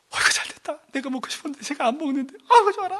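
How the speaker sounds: hushed mock glee, rising at the end; acted sneaky delight; secretly delighted. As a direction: gloat to yourself under your breath. Parent secretly glad child refuses food.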